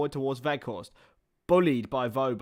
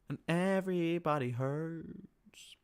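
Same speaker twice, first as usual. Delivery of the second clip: slow breathy whisper; 3 semitones higher, 6 dB quieter, much slower than usual. Pretend. Streamer to viewers, slow whisper. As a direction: breathe the line slowly, barely voiced.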